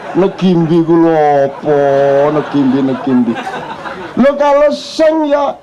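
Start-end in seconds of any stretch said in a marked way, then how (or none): 0.1-3.3 Negimbi with an added e, low and mocking; mock the wrong Negimbi; mock mispronunciation. Preacher mocking how announcers mangle the name, laughing. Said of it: "nyebut Grace Ngimbi".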